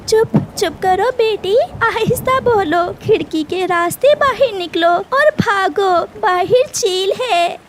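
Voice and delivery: high, hurried urging to flee; frightened mother rushing her daughter; urgent hushing. Acted. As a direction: hush the child and hurry her out. Mother hushes daughter, urges escape.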